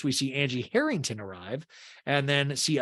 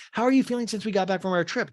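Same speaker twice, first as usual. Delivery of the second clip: mock-eager small talk, pitched up; Dana; 6 semitones higher than usual. Dana asks Meredith about their trip, eagerly imitated. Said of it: "And Dana's like".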